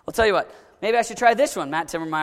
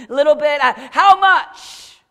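slow, high, drawn-out wheedling ask; mock wheedling; 4 semitones higher, 7 dB louder, slower than usual. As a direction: stretch it out like haggling. Mock bargaining question.

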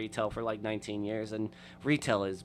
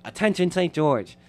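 announcer call; 7 semitones higher, 7 dB louder than usual. Retold or imitated. Imitating host's announcement video.

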